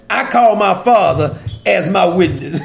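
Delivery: breaking into a laugh at the end. Real, not acted. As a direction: let amusement spill out after the words. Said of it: "I just be laughing".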